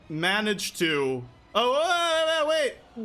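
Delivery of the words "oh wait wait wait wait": surprised. Real, not acted. DM suddenly catches mistake.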